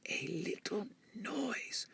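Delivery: soft, slow, voiceless whisper. A narrator's reading. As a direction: barely breathe the words. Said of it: "whispered the rabbit".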